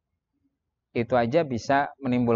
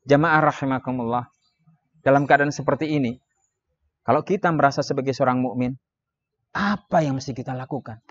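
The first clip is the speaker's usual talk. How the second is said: restrained sermon delivery, measured phrases; another speaking style. Shown as a demonstration. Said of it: "Mungkin ada gaya yang lain".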